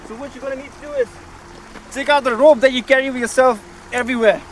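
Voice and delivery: sci-fi trailer narrator. Pretend. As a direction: boom every line like an epic movie trailer. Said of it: "I sound like a sci-fi movie trailer narrator".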